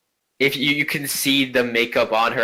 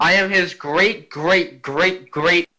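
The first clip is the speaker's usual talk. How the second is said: grand noble lady; 5 semitones higher, slower than usual. Acted. Ghost lists greats.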